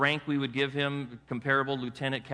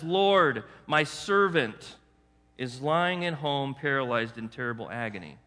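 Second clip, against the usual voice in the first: pleading; 3 semitones lower than usual. Retold or imitated. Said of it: "he's pleading with Jesus".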